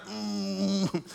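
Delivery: low, soft held strain sound; imitated straining. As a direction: imitate a toddler straining, a long low hum. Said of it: "He was kind of".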